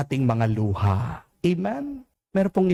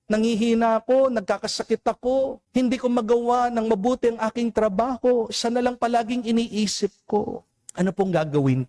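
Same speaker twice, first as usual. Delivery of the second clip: lightly voiced, higher-pitched plea of a heartbroken father; pleading grieving father; 7 semitones higher, faster than usual. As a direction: tell the priest your pain, a little higher. (mahinahong pagsusumamo ng amang nagdadalamhati)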